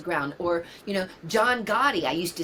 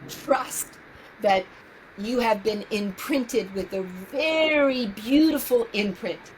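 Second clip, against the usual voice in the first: tender, tearful; 2 semitones higher than usual. Real, not acted. Tender advice to her younger self.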